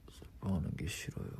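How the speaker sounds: soft whispered admission; barely voiced, hushed. Real, not acted. Soft confession. (속삭이는 고백)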